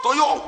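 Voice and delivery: high mock crying cry; imitated weeping wail. Preacher imitates the mosque crowd crying, a high wail. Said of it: "Dia teriak".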